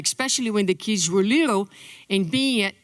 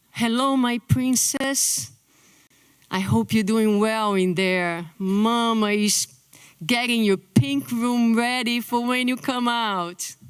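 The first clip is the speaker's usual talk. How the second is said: tender mother voice. Retold or imitated. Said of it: "We talk differently, with different tones of voice".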